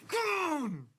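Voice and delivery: high triumphant yell; joyful scream. Real, not acted. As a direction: belt it out in celebration. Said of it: "I gotta scream a little bit".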